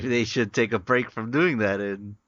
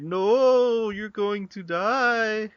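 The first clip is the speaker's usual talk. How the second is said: retold warning; 9 semitones higher, 3 dB louder, slower than usual. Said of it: "I said".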